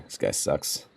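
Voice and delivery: conspiratorial, mostly unvoiced whisper. Player secretly asks Tebe about the undersecretary, whispering. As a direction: whisper it on the sly, like a shared aside. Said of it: "I am going to whisper".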